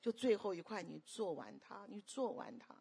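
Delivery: soft, patient coaxing; gentle insistence. Retold or imitated. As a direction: imitate a mother quietly insisting. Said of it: "但是很温柔，很坚持说".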